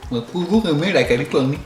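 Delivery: garbled words with water in mouth; mouth full of water. Real, not acted. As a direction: talk around a mouthful of water. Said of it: "il y a de l'eau partout".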